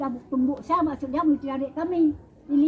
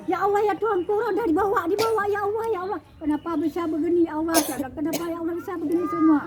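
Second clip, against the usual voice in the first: anguished lament; 5 semitones higher, 4 dB louder than usual. Retold or imitated. Lamenting as bodies swept out.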